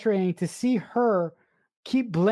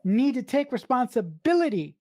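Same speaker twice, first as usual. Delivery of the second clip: acted-out exasperation, pitched higher; emphatic retold telling-off, raised pitch; fed-up outburst; 4 semitones higher than usual. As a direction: lay down the law as someone who has had it. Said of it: "Dottie has had it".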